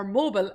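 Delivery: "mobile" said Joey's way, as MO-bull; Joey's pronunciation. Retold or imitated. Host borrowing a colleague's word for phone viewers, "mobile" as MO-bull. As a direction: say "mobile" with a reduced last syllable, MO-bull. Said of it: "as Jo-, Joey says".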